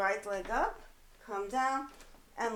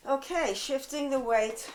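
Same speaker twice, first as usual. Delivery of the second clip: out of breath; 2 semitones higher than usual. Real, not acted. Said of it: "I'm a little out of breath".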